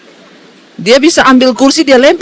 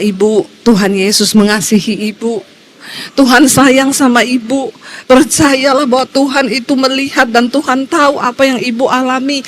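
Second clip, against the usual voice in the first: tender comfort. Retold or imitated. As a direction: soothe her like a caring shepherd. Pastor comforts weeping woman.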